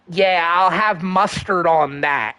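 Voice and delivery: slow, put-on voice ordering food; Josh Block impression. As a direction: order a hot dog in a mock Josh voice. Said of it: "favorite impression ... Josh Blocks".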